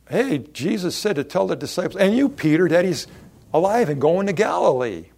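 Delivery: high, loud and eager, calling Peter out by name; excited messenger. Acted. Preacher voicing a messenger bringing Peter the news, excited. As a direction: burst out with the good news for him.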